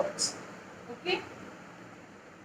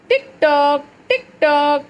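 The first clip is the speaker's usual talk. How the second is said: clock sound; 3 semitones higher, 5 dB louder than usual. Shown as a demonstration. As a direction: chant "tick tock" like a ticking clock. Teacher acting the clock sound.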